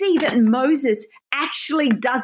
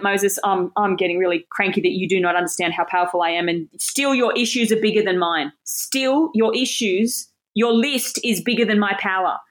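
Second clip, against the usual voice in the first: lower, half-playful exasperated God voice; mock cranky God; 4 semitones lower than usual. God scolding Moses for his list, mock cranky. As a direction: grumble it like an irritated parent, lightly. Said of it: "So then the Lord gets angry".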